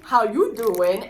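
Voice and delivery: slow, low, smooth pickup line; Joey catchphrase. Retold or imitated. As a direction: lean in like Joey Tribbiani. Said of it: "Everyone knows who says that".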